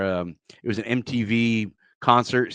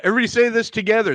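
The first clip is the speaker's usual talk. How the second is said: announcer voice; 11 semitones higher, 4 dB louder, much faster than usual. Retold or imitated. Imitating stage host announcement.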